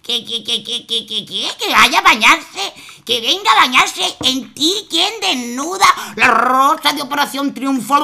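mother aghast at the river; stunned disbelief. Acted. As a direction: splutter in shock.

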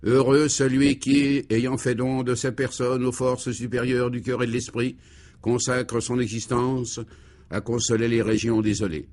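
repeated for clarity. Acted. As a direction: spell it out for the back rows. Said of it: "Je répète, pour me faire bien entendre".

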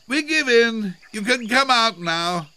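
loud, high call of surrender; high, carrying shout. A narrator's reading. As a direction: project it to someone out of sight. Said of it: "called Elmer".

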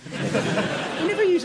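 usual speaking voice

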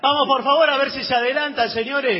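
brisk impatient call to a queue; impatient cashier. Acted. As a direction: move the customers on impatiently.

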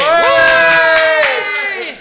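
a real burst of glee; excited cheer. Real, not acted. Cheering at the table.

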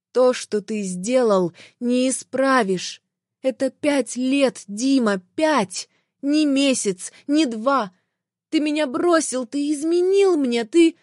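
hurt fury building to a cry; betrayed wife confronting her husband, voice rising in anger. Acted. Heroine accuses unfaithful husband.

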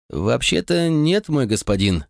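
slow, hesitant admission; slowly. Acted. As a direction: draw it out, reluctant to confess. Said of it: "медленно проговорил гонец".

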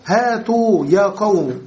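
slow هاتوا with the ta rounded by damma, hā-tū. Shown as a demonstration. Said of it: "بضمها". (هاتوا بضم التاء، ببطء)

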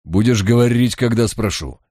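snapping at a subordinate; yelled order. Acted. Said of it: "Жиглов заорал".

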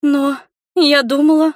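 high, loud, wounded protest; girl hurt, on the edge of tears. A narrator's reading. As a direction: trail off, stung.

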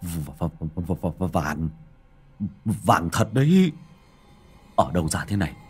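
breathless stuttering fright; stammering terror. A narrator's reading. Husband trembles pointing at the gold, breathless stammering fright. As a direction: shake and stumble over every word. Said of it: "run cầm cập, thở hồng hộc".

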